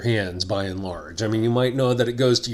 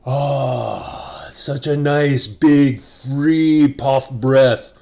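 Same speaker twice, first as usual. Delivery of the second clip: mock Canadian accent; much slower than usual. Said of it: "That's not how Canadians sound".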